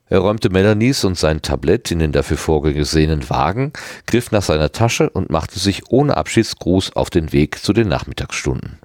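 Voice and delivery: ordinary delivery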